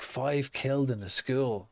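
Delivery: "Five killed in the school?" as a stunned, disbelieving question; shocked repeat. Retold or imitated. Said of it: "I walk past and I go".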